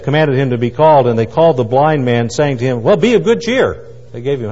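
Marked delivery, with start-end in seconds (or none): 2.8-3.9 higher, lilting mock cheer; cheery encouragement. Friends call the blind man over, suddenly cheery. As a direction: coax someone along cheerily. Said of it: "now the mood in the audience changes".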